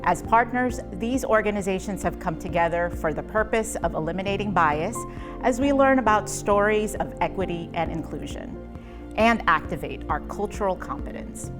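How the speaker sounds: measured announcer-style welcome; scripted program intro. Acted. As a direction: read the series introduction as a polished host. Reads the scripted series introduction.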